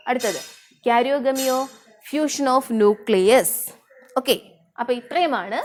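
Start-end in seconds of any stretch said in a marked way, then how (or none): 2.1-3.5 slow dictation. Shown as a demonstration. Teacher dictating a definition.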